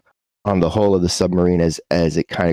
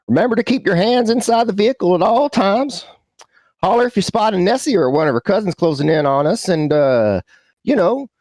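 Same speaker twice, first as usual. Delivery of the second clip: higher-pitched tour-driver patter; folksy sub pilot; 8 semitones higher than usual. Acted. Goober gives passengers safety rules from the front, high-pitched pilot patter. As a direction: rattle off safety rules in a raised character voice.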